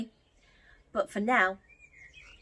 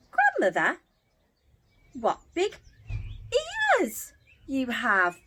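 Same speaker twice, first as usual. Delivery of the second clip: put-on girl gasping; 3 semitones higher than usual. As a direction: ask as a wide-eyed girl. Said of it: "gasped Little Red Riding Hood".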